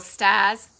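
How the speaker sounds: "stars" with a Boston dropped R; real Boston "stahs"; Boston accent. Real, not acted. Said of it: "that was my Boston accent coming back".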